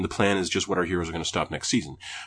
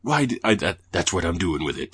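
Isaac impression; 3 semitones lower than usual. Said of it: "that's not Isaac's accent".

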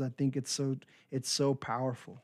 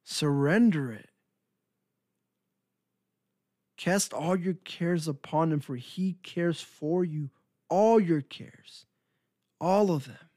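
urging surrender; 3 semitones higher than usual. Retold or imitated. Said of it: "the Word of God says".

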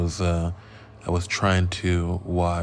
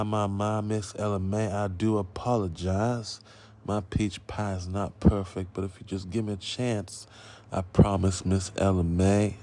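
put-on horrible Southern accent. Podcaster riffing an apology to Miss Ella May, bad Southern accent. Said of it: "That is a horrible Southern accent".

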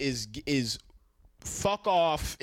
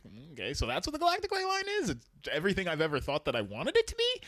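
mock incredulous; much faster than usual. Mocking the vague explanation.

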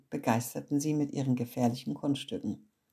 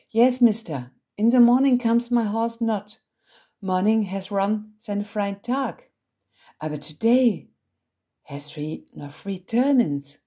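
put-on high, loud American accent mangling German; American-German mix; 6 semitones higher, 7 dB louder than usual. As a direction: chatter in broken English like an American girl. Olivia answers in mixed English. (hohe, laute Stimme mit amerikanischem Akzent)

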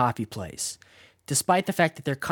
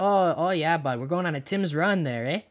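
hammed-up Canadian bit; Canadian accent. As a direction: play a chummy Canadian, accent on. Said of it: "In real life, it's".

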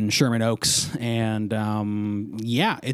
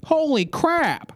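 Cartman voice; much slower than usual. Pretend. Cartman-like reaction.

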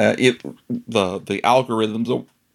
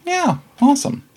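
excited. Real, not acted. Excited cheer after thanks.

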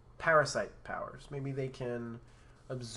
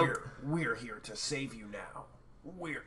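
put-on old man voice; 3 semitones lower, 11 dB quieter, slower than usual. Shown as a demonstration. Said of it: "I'll be the old man".

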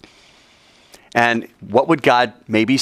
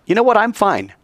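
smug Cain; 8 semitones higher than usual. Acted. Cain's smug thought voiced.

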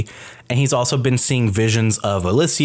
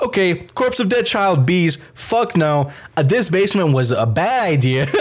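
higher, half-laughing freakout; mock panic; 6 semitones higher than usual. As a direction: act spooked while laughing. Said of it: "So I'm like".

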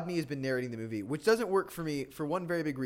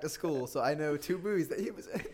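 laughing. Real, not acted. Laughing while admitting.

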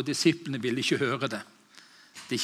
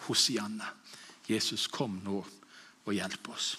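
hushed prayer; 4 semitones lower, 7 dB quieter than usual. Real, not acted. Quiet prayer after preaching.

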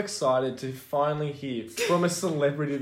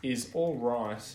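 mock formal letter. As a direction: dictate it like a grovelling fan. Mock fan letter dictated.

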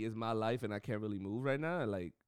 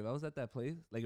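ordinary talk

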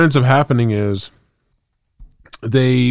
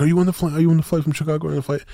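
mock freaking out; 6 semitones higher, much faster than usual. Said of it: "He's, like, freaking out the whole time".

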